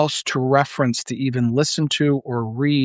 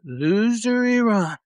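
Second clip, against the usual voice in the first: much higher, slow, savoured taunt; mocking Trump again; 8 semitones higher, slower than usual. Enjoying repeating the president's insult of Iran, slow and high. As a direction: relish the jeer, drawing it out. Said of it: "I love to do it".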